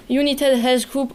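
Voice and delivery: English name with a French accent; accent français. Real, not acted. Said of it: "Excusez encore mon accent". (anglais prononcé avec l'accent français)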